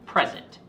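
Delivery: "present" set apart, with a punched P; emphasis on P. Shown as a demonstration. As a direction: hit the P at the start of "present". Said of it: "emphasis on the P in present".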